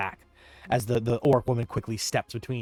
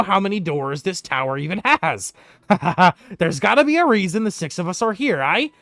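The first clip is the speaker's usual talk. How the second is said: raised, lively NPC voice; gruff character voice; 8 semitones higher, 8 dB louder than usual. Acted. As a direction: play a rough adventurer. GM voicing a character.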